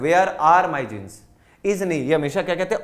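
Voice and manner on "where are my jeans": "Where are my jeans" with ARE emphasised, falling tune; stress on ARE. Shown as a demonstration. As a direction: hit "are" as the correct word, then fall. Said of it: "तो हमेशा ध्यान रखिएगा".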